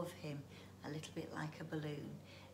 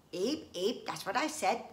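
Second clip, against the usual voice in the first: squeaky creature voice; 2 semitones higher, 7 dB louder than usual. Acted. Bungee squeaks again.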